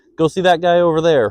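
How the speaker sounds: light-hearted, playful tone. Harvey, handing out burgers, jerks his head toward Brett; playful voice. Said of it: "Harvey said in a playful voice".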